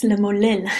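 lemolil said in Hebrew, sounding close to mull; Hebrew word lemolil. Shown as a demonstration. Teacher naming a Hebrew word to her retreat listeners, Hebrew pronunciation. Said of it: "there's a, a word that sounds the same".

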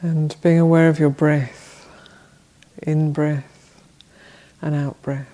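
measured meditation guidance with long pauses; unhurried phrases, each left to settle; guided meditation. Real, not acted. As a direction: guide them gently into body and breath, leaving long silences. Leads a seated meditation.

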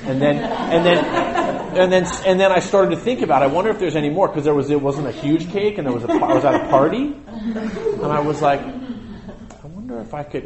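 giggly and rushed, pitch up; laughing through a greedy confession; excited kid rambling. Retold or imitated. Giddy ice cream cake story.

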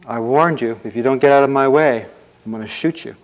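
rising to a loud threat; storyteller's bold ultimatum; acted warning. Prince threatens the ogre.

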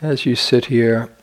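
unhurried phrases with long, spacious pauses; guided meditation. Acted. Meditation teacher guiding sitters to imagine being born, in guided meditation delivery. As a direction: lead them gently, leaving silence between phrases.

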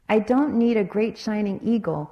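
speaking through coughs; coughing. Acted. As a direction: talk between coughs. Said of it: "coughed the little parrot".

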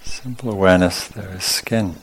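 calm, unhurried meditation guidance in short phrases; guided meditation. Real, not acted. Teacher leading sitters through awareness of skin, calm guided meditation. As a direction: guide them through the body, leaving long pauses. Leads a body-scan meditation.

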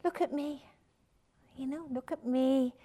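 a restrained plea to be noticed; desperate self-belief. Acted. Self-belief begging to be seen, understated desperation. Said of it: "the equally desperate voice of self-belief".

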